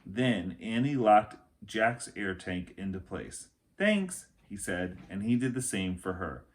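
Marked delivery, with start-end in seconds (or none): 3.8-4.3 put-on boy voice. Jack voiced.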